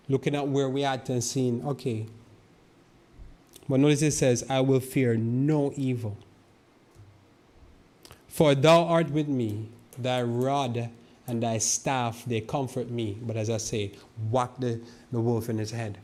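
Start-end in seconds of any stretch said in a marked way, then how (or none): 4.5-13.2 slow, louder, stretched-out psalm reading; scripture proclamation. Acted. Preacher proclaims comfort verses to his flock, slow and loud. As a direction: declaim each phrase slowly.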